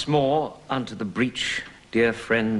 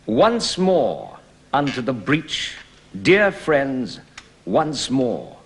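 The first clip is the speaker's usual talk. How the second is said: declaimed, rising to a louder climax on wall; verse speaking; 3 dB louder than usual. Shown as a demonstration. Actor repeating the breach speech for the lesson, declaimed. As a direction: give the rallying cry full stage voice. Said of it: "Let's take the speech now".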